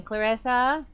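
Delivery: high, sharp demand; irritated shout through door; snappish. Acted. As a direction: bite back at the caller. Clarissa answers door.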